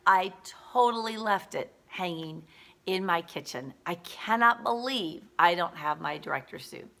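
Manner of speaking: emphatic imitation of a dismayed friend; retold freaking out. Roommate without her director suit, mildly freaking out. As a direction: act out mild disbelief at your own mistake. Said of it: "Betty is freaking out".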